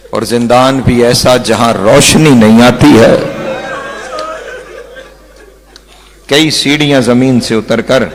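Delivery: long pauses between each phrase; halting pauses. Real, not acted. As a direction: let the silences sink in. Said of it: "میں رک رک کے جملے کہہ رہا ہوں".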